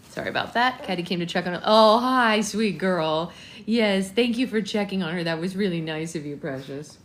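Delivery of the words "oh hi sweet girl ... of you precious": loud, happy hello to the dog; cheerful greeting. Real, not acted. Owner greeting her dog Caddy, loud and cheerful. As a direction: greet the pet brightly.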